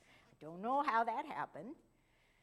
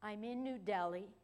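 very soft voice; 3 semitones lower, 5 dB quieter than usual. Retold or imitated. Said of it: "in a very soft voice".

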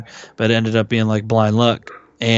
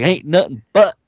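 great line delivery; 2 semitones lower, slower than usual. Retold or imitated. Imitating the preacher's answer, slow dramatic delivery. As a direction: stretch out "fire and brimstone" with ominous relish. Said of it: "the delivery is fucking great".

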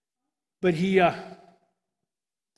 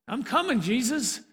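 ecstatic cry; 4 semitones higher than usual. Acted. Stephen's cry while stoned.

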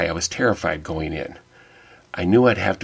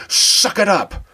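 high-pitched mock scream; retold scream; 13 semitones higher, 4 dB louder, slower than usual. Frustrated remodeler screaming at the TV, mock scream. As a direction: yell it sharply, pitch leaping right up. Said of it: "I scream at the T V".

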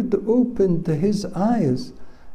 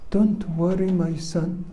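gently steadying a frightened disciple; calm reassurance; 2 semitones higher than usual. Retold or imitated. Elisha soothes his frightened disciple, calm and gentle.

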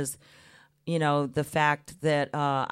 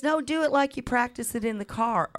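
imitating Mama; 8 semitones higher than usual. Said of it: "Mama says".

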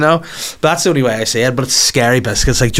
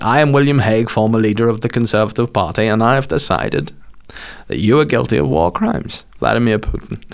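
William Hague impression. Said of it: "decent, decent impression".

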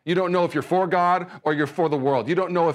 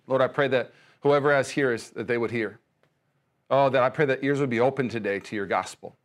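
spoken prayer; 3 semitones lower than usual. Acted. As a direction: pray sincerely over the listeners. Leads a prayer.

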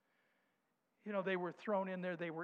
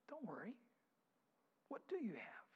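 gentle hush; 4 semitones higher, 9 dB quieter than usual. Acted. Jesus answering disciples gently.

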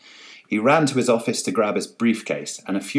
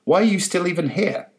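exasperated; 10 semitones higher than usual. A narrator's reading. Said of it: "Carol shouted".

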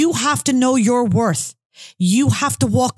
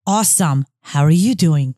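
mock-casual reply; 6 semitones lower than usual. Friend dictating the email reply to send back, mock-casual. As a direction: dictate it low, dripping with fake indifference.

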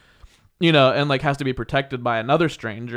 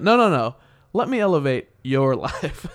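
mocking comeback. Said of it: "and I said".

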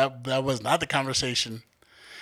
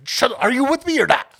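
mock angry shout; 10 semitones higher, 5 dB louder than usual. Retelling snapping at friend.

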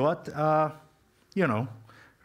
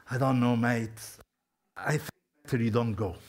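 wishy-washy. Shown as a demonstration. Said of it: "It wasn't wishy-washy".

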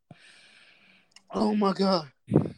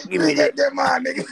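gravelly voice; 10 semitones lower, 5 dB louder than usual. Retold or imitated. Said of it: "old smoker's voice".

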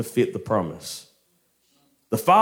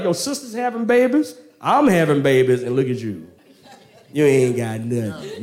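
mock taunting. Hagar with a baby giving Sarah grief, mock gloating. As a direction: brag and needle, laughing at the end. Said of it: "giving her some grief".

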